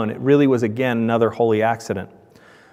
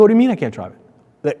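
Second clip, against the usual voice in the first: indignant self; 5 semitones higher than usual. Retold or imitated. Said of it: "I go".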